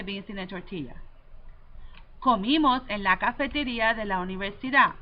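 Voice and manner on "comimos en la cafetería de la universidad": quick model sentence. Shown as a demonstration. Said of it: "One more time".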